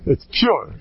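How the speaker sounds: breathy laugh over the words It's pure; mock the claim, laughing it out; laughing through it. Real, not acted. Mocking the vodka praise, laughing.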